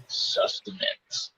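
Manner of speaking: slow breathy whisper of the word. Pretend. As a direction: whisper it slowly, savouring it. Savouring the cool word.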